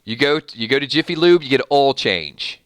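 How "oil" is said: oil said as "awl"; Southern oil. Shown as a demonstration. Host gives a Jiffy Lube example, oil as Southern "awl". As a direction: drop the glide in oil so it becomes "awl". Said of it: "We say oil".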